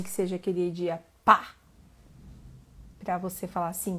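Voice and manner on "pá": explosive, punched "pá!"; sudden loud burst. Shown as a demonstration. Urging viewers to have a decisive day, sudden loud burst. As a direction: hit it like a slam, much louder.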